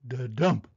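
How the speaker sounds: short two-beat thump; punchy da-dump effect; imitated da-dump. A narrator's reading. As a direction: land it like a final thud. Imitated gadget noises.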